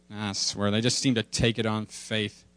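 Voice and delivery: low, soft father voice; cartoon dad. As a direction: answer as a subdued cartoon daddy. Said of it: "Daddy, do you believe".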